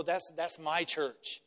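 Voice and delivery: flippant. Retold or imitated. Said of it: "And I often say".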